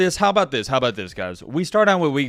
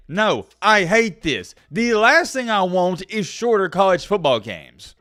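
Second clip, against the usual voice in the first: quoting himself; 4 semitones higher, 3 dB louder, slower than usual. Retold or imitated. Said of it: "what did I say?".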